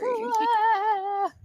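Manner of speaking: high, loud call across the room. Real, not acted. Calling for the missing player, a loud high shout. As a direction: yell her name to get her attention. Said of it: "Maybe we should scream for her".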